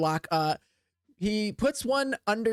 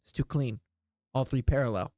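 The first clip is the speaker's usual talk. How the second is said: lightly voiced wood elf, a little lower; 5 semitones lower than usual. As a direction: speak as a low-voiced elf. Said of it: "And he goes".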